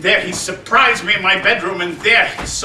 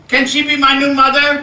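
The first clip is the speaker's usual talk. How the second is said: gasping excitement; 3 semitones higher, 4 dB louder than usual. Acted. Boy thrilled by Ethel.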